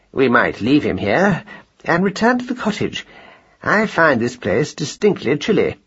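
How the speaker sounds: long-winded, a little hesitant mouse gentleman; measured, mildly self-important speechifying; lightly voiced pompous husband. Mouse husband proposes going back to the cottage, mildly pompous.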